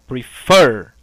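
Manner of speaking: PREFER with FER hit loud; stress on final syllable. Shown as a demonstration. Teacher demonstrating the stressed last syllable, FER punched in PREFER. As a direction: lean hard on the FER in PREFER. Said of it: "Fer é o tônico".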